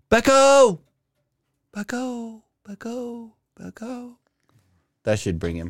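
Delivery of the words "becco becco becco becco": shouting out, higher pitch. Calling out in the streets for a missing character: yelling a name. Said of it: "Can I yell?".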